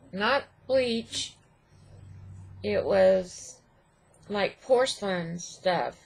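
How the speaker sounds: numb lip from the dentist; slightly slurred with numb mouth. Real, not acted. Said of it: "my lip is still numb".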